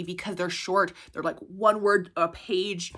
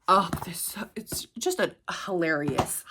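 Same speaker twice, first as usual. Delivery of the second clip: whisper; 3 semitones lower, 4 dB quieter than usual. Real, not acted. Fond aside about book.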